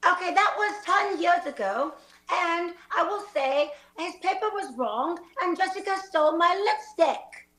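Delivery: badly butchered Australian; Australian accent. Student defending against cheating charge, in an Australian accent. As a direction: protest in a faked Aussie accent. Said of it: "great butchering of the Australian accent".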